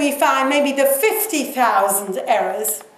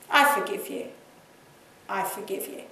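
lower, softening words of pardon; gentle forgiveness; 4 semitones lower, 6 dB quieter than usual. Acted. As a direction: release it quietly, letting each repeat sink. Modelling the prayer of forgiveness.

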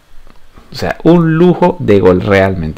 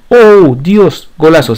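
excited; 5 semitones higher, 4 dB louder, slower than usual. Real, not acted. Watching a goal attempt.

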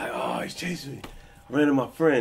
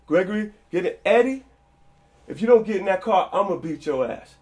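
higher, louder furious shouting; angry yell; 5 semitones higher, 6 dB louder than usual. Retold or imitated. Dad shouting at his son to get in the car, angry. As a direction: threaten the kid into the car.

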